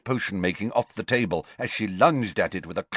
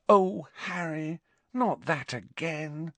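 exasperated; 9 semitones higher, 3 dB quieter, slower than usual. Acted. Hermione exasperated.

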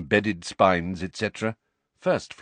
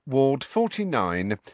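dismissive; 4 semitones higher than usual. Acted. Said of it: "said the witch dismissively".

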